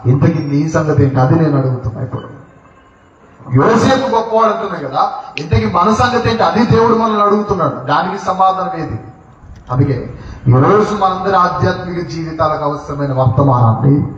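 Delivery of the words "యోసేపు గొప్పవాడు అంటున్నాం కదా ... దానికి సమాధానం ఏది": higher-pitched, sustained sermon delivery; insistent preaching. Real, not acted. Preacher drives home Joseph's righteousness to the congregation, insistent preaching. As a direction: press the point home, repeating with conviction.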